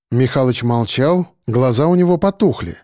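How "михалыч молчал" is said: plain reading voice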